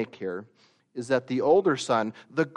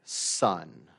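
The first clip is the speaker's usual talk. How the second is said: louder, slow resentful your son; bitter accusation; 4 dB louder, slower than usual. Acted. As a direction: spit out this son of yours. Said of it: "And he says".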